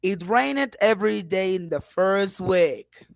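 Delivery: dip, then lift towards "first week"; down-then-up intonation. Shown as a demonstration. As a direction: model the tune down and then up on "week". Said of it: "how I went down and then up".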